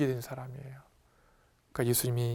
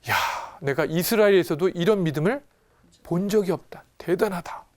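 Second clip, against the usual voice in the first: mildly raised, marveling voice; astonished; 4 semitones higher, 4 dB louder than usual. Acted. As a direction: react with impressed amazement. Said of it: "예수님이 깜짝 놀란 거예요". (깜짝 놀라 감탄하며)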